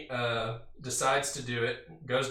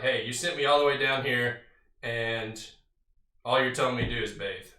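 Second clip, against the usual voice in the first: louder, quick mock-outraged gripe; indignant complaint; 4 dB louder than usual. Preacher paraphrasing Naaman's complaint to the prophet, mildly indignant. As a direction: play the offended general, lightly. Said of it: "he's furious".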